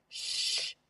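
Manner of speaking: whispered shush; a sharp whispered shh; hushing whisper. Acted. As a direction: hush her so the fish don't flee. Fishing needs quiet.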